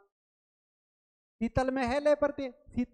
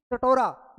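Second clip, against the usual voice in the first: कटोरा said loud, leaning on the ओ in टो; ओ sound stressed; 6 dB louder, much slower than usual. Shown as a demonstration. Teacher showing students the ओ sound, loud and stressed. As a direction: punch the ओ in कटोरा to show it. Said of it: "ए की निकलनी चाहिए थी".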